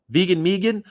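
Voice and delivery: Vegan Megan sung out high and playful; sing-song nickname. Pretend. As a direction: chirp Vegan Megan like a cheerful jingle. Repeats nickname in put-on voice.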